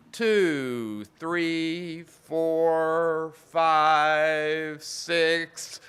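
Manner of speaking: shouted coaching countdown; loud count. Shown as a demonstration. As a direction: bark the count to push them on. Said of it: "let's everybody do it this morning".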